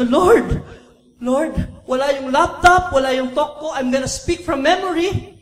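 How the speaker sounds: loud pleading cry to the Lord; desperate plea. Retold or imitated. Preacher reliving his panic to God, pleading loudly. Retold desperate prayer in the car.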